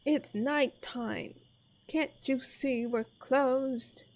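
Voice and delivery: slow, drawn-out annoyed barkeep; slow grumpy barkeep. Acted. Barkeep turning away late guests, slow and annoyed. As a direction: drag it out like you were woken.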